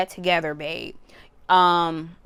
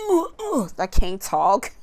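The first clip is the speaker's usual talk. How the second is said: mock stammering; 3 dB louder than usual. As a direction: play-act being unable to speak. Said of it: "I don't know why I'm stuttering".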